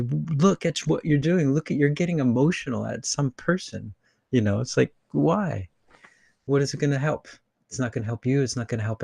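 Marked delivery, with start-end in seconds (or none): 0.0-7.3 higher-pitched, emphatic imitated challenge; mock shake-up. Polarizing people shaking you up, imitated wake-up challenge. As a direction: question them as if shaking them awake. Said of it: "shake you up and say".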